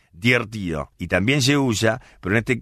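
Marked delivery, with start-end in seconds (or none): 0.1-0.9 "divertido" como "diertíiio"; pronunciación porteña parda. Shown as a demonstration. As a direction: comete la v y la d final de "divertido". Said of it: "No, no, no". ("divertido" sin consonantes del medio, estirado)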